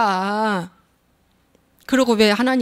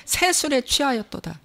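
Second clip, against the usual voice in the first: quiet scripture quote; 6 dB quieter than usual. Retold or imitated. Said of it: "그랬어".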